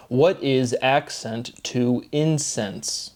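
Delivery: slow line, "incense" set out as the smell word; "incense" with weight on IN; stress on INCENSE. Shown as a demonstration. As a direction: spell out "incense" slowly and deliberately. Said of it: "emphasizing I said incense like smell".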